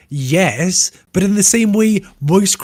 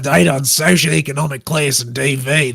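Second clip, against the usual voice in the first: put-on Australian accent. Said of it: "Do it possibly in an Australian accent".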